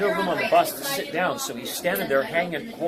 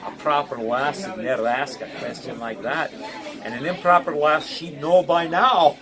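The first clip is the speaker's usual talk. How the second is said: lightly Scottish kilted man. Retold or imitated. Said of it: "he says".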